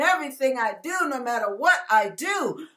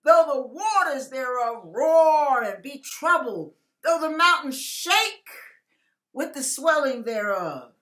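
scripture reading. Real, not acted. Preacher reading the psalm to his viewers, solemn and measured. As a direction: read the psalm with weight.

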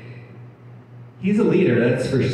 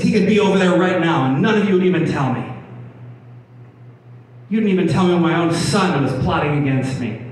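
goofy paranoid king; 3 semitones higher, faster than usual. Retold or imitated. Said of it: "What a goof".

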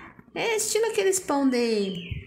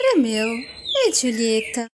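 grand dish announcement; 3 semitones lower, slower than usual. Pretend. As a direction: present it like a posh chef. Dish name announced slowly. (anúncio solene de chef)

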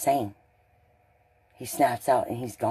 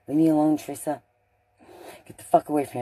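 louder, higher retold outburst; imitating an angry yell; 4 semitones higher, 6 dB louder, faster than usual. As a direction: mimic him snapping to be left alone. Teresa retells Josh pushing her away.

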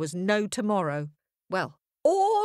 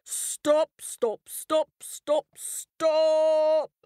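repeated loud commands of stop; commanding lion; 8 semitones higher, 3 dB louder, much slower than usual. A narrator's reading. Lion halting the stampede, repeated commanding stops. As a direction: bark stop at the crowd. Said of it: "he roared".

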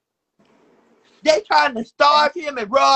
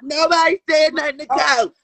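shouting; 2 semitones higher than usual. Acted. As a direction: yell it to shut them up. Repeating the line, then shouting it.

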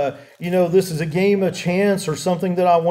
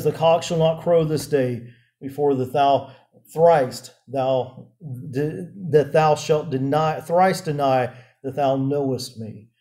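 slow, grave-paced quotation, slightly lowered; very calm voice; 3 semitones lower than usual. Retold or imitated. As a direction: foretell it calmly, with pauses. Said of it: "probably in a very calm voice".

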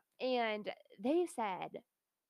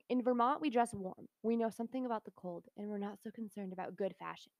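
a hint of Bernie's voice, mostly her own; lightly imitating Bernie's old-man delivery; Bernie impression. Reading Bernie's quote to her co-host, barely voiced as Bernie. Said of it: "I can't do the Bernie voice".

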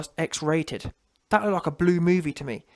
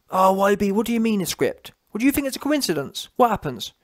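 higher, sing-song mock of a doubter's questions; mocking whine; 3 semitones higher than usual. Mocking the goofies questioning YB, higher in pitch. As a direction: ridicule the doubters by parroting them.

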